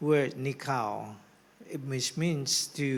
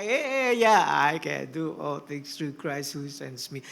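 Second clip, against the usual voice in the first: breezy; 2 semitones lower than usual. Retold or imitated. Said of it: "it's easy to do it now".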